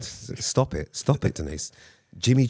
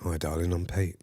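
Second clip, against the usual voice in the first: low, soft smooth-talker voice; sexy voiceover man; deep seductive voice; 5 semitones lower, 4 dB quieter than usual. Pretend. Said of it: "that's a bit deep".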